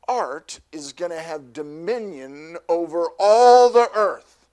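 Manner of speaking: loud, slow proclamation of power; booming out God's big plan to the crowd; proclaiming dominion. Acted. Preacher booms God's declaration to the congregation, loud and slow.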